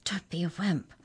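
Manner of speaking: breath-only taunting whisper. A narrator's reading. Mallory answering Arthur's warning in court, whispered. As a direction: whisper it scornfully under your breath. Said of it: "whispered Mallory".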